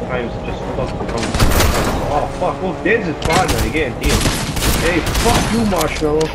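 worked-up, high and loud gamer rant; high-pitched, indignant outburst; outraged. Real, not acted. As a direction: rant in rising disbelief at being shot. Outraged gamer after being shot in game.

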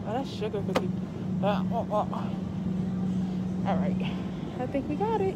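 muffled by face covering; speaking behind fabric mask; through a cloth mask. Real, not acted. Seen 4: Cloth mask covers mouth and nose throughout; reference frames unmasked.

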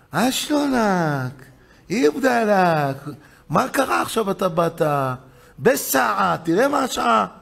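lightly voiced wife, drawn-out opening words; wife's greeting. Wife to husband coming home late, lightly imitated wife. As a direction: stretch the greeting, then question the late hour. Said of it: "אשתו אומרת לו".

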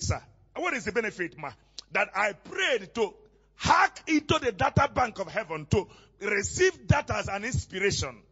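emphatic, driving sermon delivery; preaching. Real, not acted. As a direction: preach it out to the whole congregation. Preaches with force to congregation.

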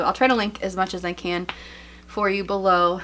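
slightly out of breath; breathless, pregnant and winded. Real, not acted. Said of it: "like, out of breath this entire video".

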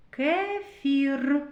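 "Кефір" with a long rolled final "р"; sounding out R. Shown as a demonstration. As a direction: trill the last r of "Кефір". («Кефір» з протяжним «р» у кінці)

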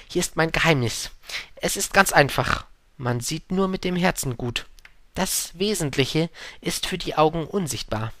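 wise fox. Acted.

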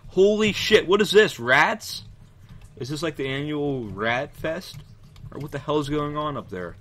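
high, loud startled outburst; real shock at sudden rats; startled shout. Real, not acted.

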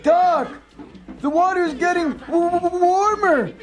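very high, frightened squeal; panicky stammer. Acted. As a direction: stutter in alarm as the pot heats. Captive in heating pot.

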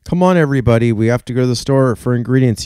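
high, loud, eager call; rally the gang to go shopping; C J the cat yelling to the crew. Acted. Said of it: "yells C J the cat".

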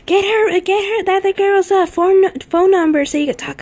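high, eager mom voice; imitating mom. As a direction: push it like a pushy mom. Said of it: "my mom is like".

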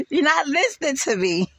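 words half swallowed by a high laugh; laughing through quote. Real, not acted. Laughing while quoting Nesto telling Sonya to listen. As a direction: quote him while cracking up.

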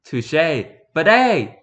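theatrical Elizabethan delivery; Shakespearean dialogue. Acted. Lord and mage trading theatrical old English. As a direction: play it like a stage lord.

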